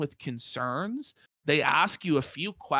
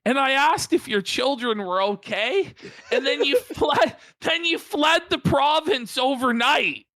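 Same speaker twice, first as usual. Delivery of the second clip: mock outrage; 5 semitones higher than usual. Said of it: "mocking the caseworker".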